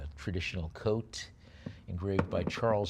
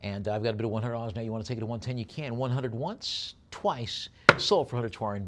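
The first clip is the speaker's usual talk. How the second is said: auctioneer's closing call; 4 dB louder than usual. Acted. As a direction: call the last bid and knock it down.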